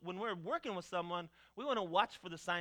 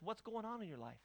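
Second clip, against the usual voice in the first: soft, gentle "What's going on in your life?" with a falling end; caring question; 4 semitones higher, 6 dB quieter than usual. Shown as a demonstration. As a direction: ask it softly, the way a pastor would. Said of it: "let me ask this".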